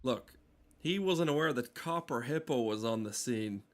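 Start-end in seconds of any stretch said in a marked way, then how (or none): none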